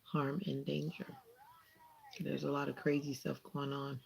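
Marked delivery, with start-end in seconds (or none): 0.0-1.1 soft prayer. Real, not acted. Prays for viewer's protection.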